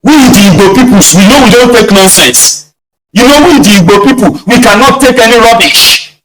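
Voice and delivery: high, hammed-up hateful rant; mock agitator voice. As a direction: parody a hotheaded troll. Mocking troll voice again.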